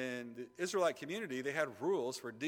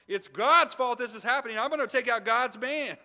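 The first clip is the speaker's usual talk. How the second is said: loud, high vengeful outburst; acted royal fury at full voice; angry king; 7 semitones higher, 10 dB louder than usual. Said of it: "anger came over the king".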